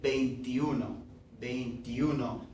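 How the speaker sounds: "veintiuno" as one word, the E swallowed; "veintiuno" quick, skipping the E sound; natural run-together. Shown as a demonstration. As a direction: show how people really say it. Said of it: "what people end up saying is".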